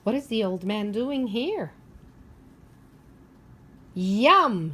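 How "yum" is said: yum. Acted. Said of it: "he says".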